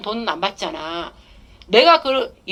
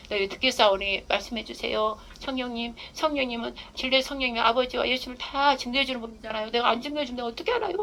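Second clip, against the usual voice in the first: earnest prayer; 7 dB quieter than usual. Shown as a demonstration. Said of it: "막 이래야 돼".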